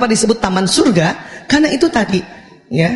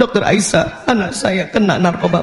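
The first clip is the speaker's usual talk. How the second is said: mock tearful crying, speaking through sobs; 3 semitones lower than usual. Retelling a support group where one mother spoke to the doctor, imitating her crying. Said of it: "Kata ibu yang ini sambil nangis-nangis".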